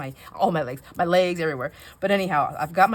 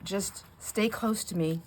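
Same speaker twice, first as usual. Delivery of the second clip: nervous request; 3 dB quieter, slower than usual. Retold or imitated. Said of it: "I said".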